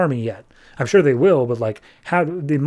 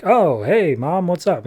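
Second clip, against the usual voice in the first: higher, lightly acted happy hello; cheerful greeting; 4 semitones higher, slower than usual. Happy son hears his mom nearby, cheerful greeting. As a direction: greet Mom casually, pitched up.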